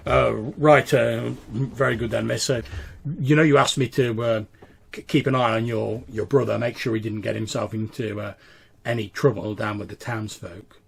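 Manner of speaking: deferential, halting voice with slight gruffness; slightly gruff servant. Acted. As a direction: deliver news hesitantly, a little gruffly.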